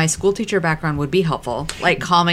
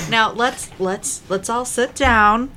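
higher, slow coaxing teacher; kindergarten teacher voice; 6 semitones higher, slower than usual. Acted. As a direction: settle the class down gently. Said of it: "I'm putting on my kindergarten teacher voice".

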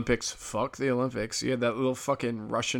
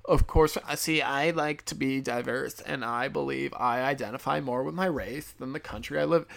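mock voice; 2 semitones higher than usual. Mocking the skier again.

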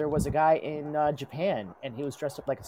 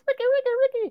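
squeaky high cartoon voice; high silly voice; 4 dB louder than usual. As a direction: chirp the name up high. Mimicking DJ voice.

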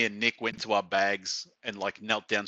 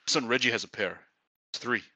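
Byron. Retold or imitated. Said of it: "I'm about to do your accent".

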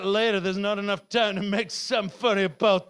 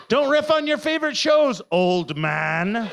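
higher, louder self-scolding with a laugh; scolding myself; 4 semitones higher, 4 dB louder than usual. Shown as a demonstration. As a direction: tell yourself off, laughing. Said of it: "Oh, no".

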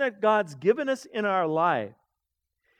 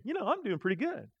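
louder, proud self-congratulation; self-satisfied thinking; 6 dB louder than usual. Retold or imitated. Preacher imitating his own proud thoughts, loud and smug. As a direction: act out puffed-up pride. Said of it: "I'll just start thinking".

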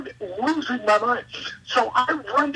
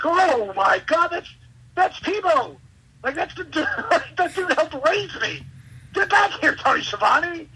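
high-pitched, giddy fan outburst; thrilled disbelief with a laugh breaking in; retold starstruck excitement; 7 semitones higher than usual. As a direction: climb higher as you recognize your idol. Fan recognizing his childhood idol.

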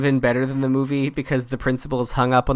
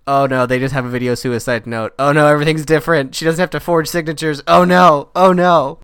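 mock panic; 3 semitones higher, 7 dB louder than usual. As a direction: ham up the dawning panic, climbing to a shout. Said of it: "And I was like".

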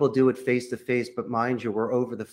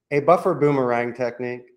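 normal talking voice

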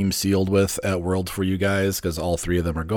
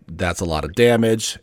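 infomercial voice. Pretend. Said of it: "in my best infomercial voice".

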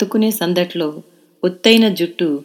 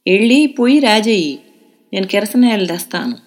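sing-song grandmother; 3 semitones higher, 4 dB louder than usual. A narrator's reading. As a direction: chant the scolding to wake the lazy girl. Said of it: "అని రాగం తీసి". (అమ్మమ్మ రాగం తీస్తూ తిట్టడం)

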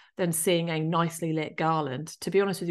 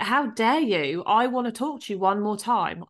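retold indignant plea, higher pitched; angry plea; 4 semitones higher than usual. Grieving daughter wanting one more talk with dad, angrily retold. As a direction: replay angry longing, pitched up. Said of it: "I was so angry at him".

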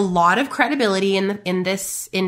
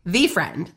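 "The" said as THEE, lower repeat; stress on THE; 3 semitones lower than usual. Real, not acted. Coach confirming which friend, emphatic THE. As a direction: lean on "The" to confirm the one friend.

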